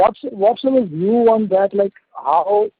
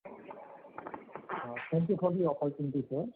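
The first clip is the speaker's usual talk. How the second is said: very faint, distant voice; speaking too softly to hear; barely audible; 14 dB quieter than usual. Real, not acted. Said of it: "Your voice is very low".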